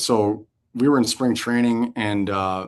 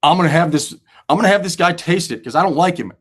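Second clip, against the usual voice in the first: louder, higher conspiratorial line; mischievous scheme; 7 semitones higher, 9 dB louder than usual. Retold or imitated. Prankster revealing who gets the hot sauce, gleeful. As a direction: pitch the prank with glee. The speaker explaining his prank.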